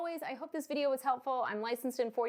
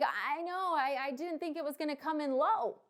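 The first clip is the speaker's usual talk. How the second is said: mock dismay; 4 semitones higher than usual. Clients in trouble plead.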